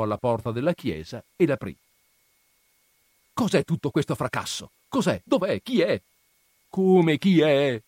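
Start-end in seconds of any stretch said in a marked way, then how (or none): 3.3-6.0 raised, higher alarmed questions; startled sacristan calling out. Acted. Sacristan roused by the noise. 6.7-7.8 slow, loud and higher, stretched out; loud slow incredulous retort; drawn-out loud retort. Acted. Ambrogio answers the crowd.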